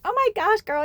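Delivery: high, loud mock gush; gushing friend. Friend stops after kissing her, gushing. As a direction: imitate a thrilled friend, high-pitched.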